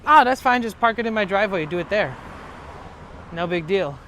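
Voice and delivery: bright casual offer, no big deal; generous neighbour brushing off the favour; imitating Luis. Luis offers his driveway.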